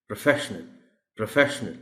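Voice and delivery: प्रोफेशनल with a short "pruh" start; correct pronunciation. Shown as a demonstration. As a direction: model प्रोफेशनल as "pruh-FESH-nal". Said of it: "प्र की sound है". (प्रोफेशनल کا تلفظ "پرَ" سے)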